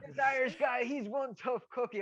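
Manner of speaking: high, gleeful mock announcement; high excited showing-off; excited quoting. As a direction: play it up for the lads. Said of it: "I'm trying to get loads out of it".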